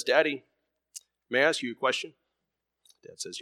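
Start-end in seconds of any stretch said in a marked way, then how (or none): 0.0-2.1 put-on a lightly higher, small boy's voice; a hint of a young boy asking his father; child son's voice. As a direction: ask shyly, like a little son. Son asks his dad.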